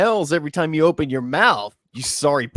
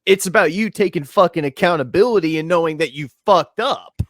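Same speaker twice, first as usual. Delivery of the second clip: louder, higher argumentative rant; exasperated rebuke; 4 semitones higher, 4 dB louder than usual. Real, not acted. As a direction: argue back, voice raised in frustration. Arguing back at streamer's clip.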